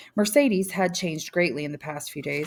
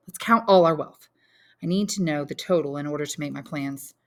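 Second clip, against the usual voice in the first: a hint of an eager son, louder start; lightly voiced young Albert; 4 dB louder than usual. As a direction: son briskly taking stock.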